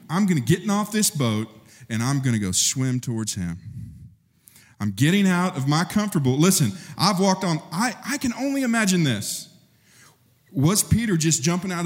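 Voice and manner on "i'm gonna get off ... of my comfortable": eager resolve. Acted. Peter's eager resolve voiced.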